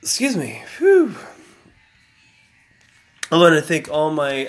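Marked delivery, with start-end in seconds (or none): 0.0-0.6 hiccups breaking the sentence. Real, not acted. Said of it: "I got the hiccups so bad". 0.8-1.1 hiccup yelp. Real, not acted. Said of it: "I got the hiccups so bad".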